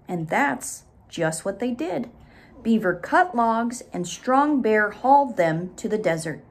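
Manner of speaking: gentle read-aloud ending; story narration. Acted. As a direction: close the tale for the children.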